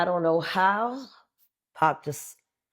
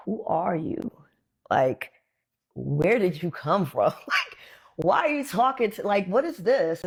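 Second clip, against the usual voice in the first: awed whisper; 3 semitones higher than usual. Retold or imitated. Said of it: "I was just like".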